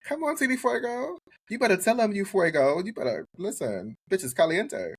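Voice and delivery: squeaky, high mock white-girl accent on "Fuego" and "caliente". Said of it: "Not you speaking in that horrible ass white accent".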